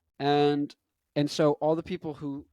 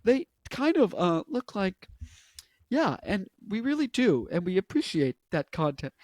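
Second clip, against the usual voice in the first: halting put-on corporate voice, jumping high; awkward pitched-up spokesman mimicry; Mark Zuckerberg impression; 3 semitones higher than usual. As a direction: mimic a hesitant tech boss, um by um. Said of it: "That's how he sounds".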